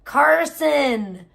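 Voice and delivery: Carson said loud and clear, Car-son with no L; Carson, firmly, no L; correct name. Shown as a demonstration. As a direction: stress the right name, Carson. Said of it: "it's Carson, not Carlson".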